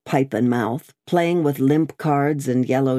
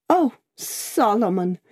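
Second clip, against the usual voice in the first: Miss Pross's higher, eager cry of joy; crying out to her brother; 7 semitones higher than usual. A narrator's reading. Sister finds her long-lost brother in the wine-shop, crying out. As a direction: call his name like a longed-for reunion. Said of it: "cried Miss Pross".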